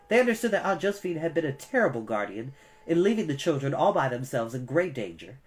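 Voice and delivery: plain reading voice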